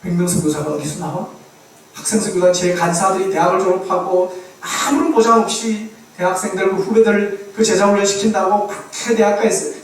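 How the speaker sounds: mildly acted stern telling-off; mock reprimand, pressing on without letup; retold scolding. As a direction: imitate God rebuking a pastor, firm and insistent. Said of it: "막 야단 치셨다는 거예요".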